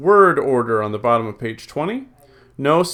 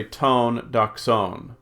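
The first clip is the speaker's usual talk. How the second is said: slow "tone doxon", stress on the final ON; stress on last syllable; much slower than usual. Shown as a demonstration. Teacher reading Greek by the accent mark, "doxon" stressed at the end. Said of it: "accent mark is on the last syllable".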